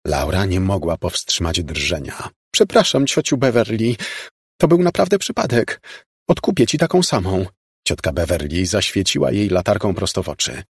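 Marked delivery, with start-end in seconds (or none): 2.5-7.4 wysoki, przejęty głos dziewczyny; przepraszająca siostrzenica. A narrator's reading. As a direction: przepraszaj ciocię wysokim głosem. Voices apologetic shivering Laura. (skruszony głos siostrzenicy)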